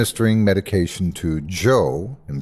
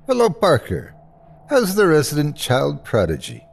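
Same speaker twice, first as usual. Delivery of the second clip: put-on higher, friendly Irish-accented greeting; slight Irish lilt; 6 semitones higher than usual. A narrator's reading. Nurse greets Parker in a good mood, slight Irish lilt. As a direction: greet him in a lightly Irish voice. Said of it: "voice still carrying a slight Irish lilt".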